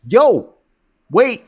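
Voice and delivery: high-pitched retold double take; stunned, high-pitched mock disbelief; shocked disbelief. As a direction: replay your stunned reaction, pitched high. Acts out his shocked reaction.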